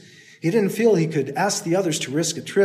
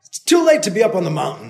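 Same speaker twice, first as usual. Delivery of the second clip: yelling back; 3 semitones higher, 5 dB louder, faster than usual. Acted. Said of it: "the man yelled back".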